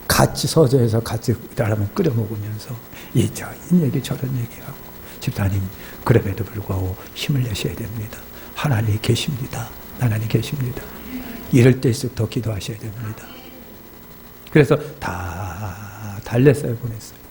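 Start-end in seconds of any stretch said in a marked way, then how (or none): 5.2-13.3 gentle reassurance. Retold or imitated. Pastor comforts deacon over ramen.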